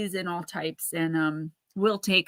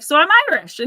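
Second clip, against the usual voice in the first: put-on high, loud kid exclamation; imitated child's proud outburst, pitched up; excited little kid; 9 semitones higher, 10 dB louder, faster than usual. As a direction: pipe up like an excited five-year-old, imitating. Quotes five-year-old son's excited conclusion.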